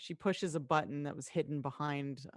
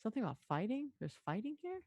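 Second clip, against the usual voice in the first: murmuring crowd; 2 semitones higher, 6 dB quieter than usual. Acted. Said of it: "They're like".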